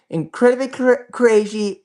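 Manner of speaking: stumbling over dentures falling out; tripping over loose dentures; dentures slipping. Real, not acted. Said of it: "my dentures are falling out".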